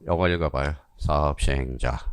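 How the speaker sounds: normal talking voice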